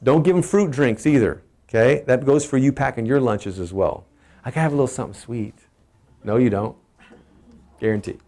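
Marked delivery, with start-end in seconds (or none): 4.4-5.6 mock whine. Mocking a lunch-packer's excuse.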